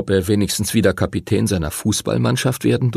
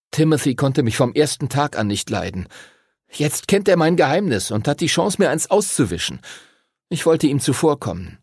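put-on higher-pitched boy explaining himself; Henry, defensive boy; 6 semitones higher than usual. Henry explains the fight to friends, higher defensive voice. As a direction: justify yourself in a raised boyish voice.

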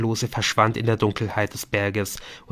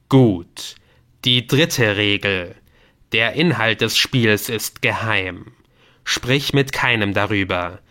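stern game voice; 4 dB louder than usual. Acted. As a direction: pronounce each rule like a warning. (strenge, langsame Stimme des Spiels)

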